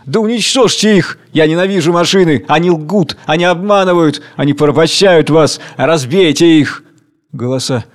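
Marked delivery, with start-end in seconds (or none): 0.0-6.8 higher furious cry, a touch louder; angry shout. Acted. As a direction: rage at the machines. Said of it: "кричит гневно". (гневный крик)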